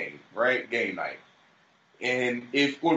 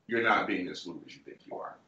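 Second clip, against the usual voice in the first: normal talking voice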